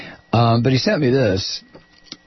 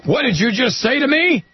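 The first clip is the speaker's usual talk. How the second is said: higher, imitating a man's raised challenge; mock raised voice; 11 semitones higher than usual. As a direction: play the heated man in line, mildly. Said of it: "a man can be heard saying in a raised voice".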